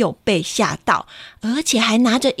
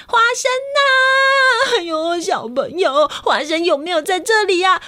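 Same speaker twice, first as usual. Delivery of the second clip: worried mother; 8 semitones higher than usual. Acted. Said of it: "冲到客厅说".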